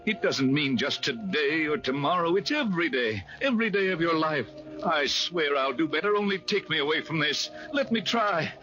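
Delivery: desperate pleading with a ghost; pleading begging. Acted. Scrooge begging the spirit at his own grave, desperate pleading.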